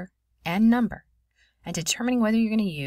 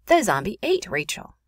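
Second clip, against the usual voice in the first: louder, higher theatrical dismay; mock horror; 4 semitones higher, 5 dB louder than usual. Teacher translating Rachel's zombie attack for students, mock horror. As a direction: announce it in pretend shock.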